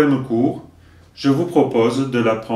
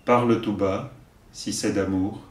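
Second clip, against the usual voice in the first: poem recitation; 2 semitones lower than usual. Acted. Teacher giving verses for learners to repeat, measured recitation. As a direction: recite line by line, leaving room to repeat.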